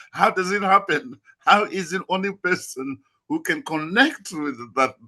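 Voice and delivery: high-pitched incredulous questioning; mock bafflement. Guest echoing a child's questions about Tarzan's jungle, mock bafflement. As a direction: puzzle it out in a high, disbelieving voice.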